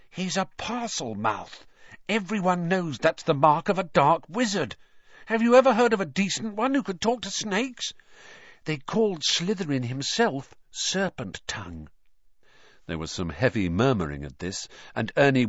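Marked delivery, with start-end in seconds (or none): 0.1-11.9 lightly voiced stout boy, solemn. A narrator's reading. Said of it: "said the stout boy solemnly".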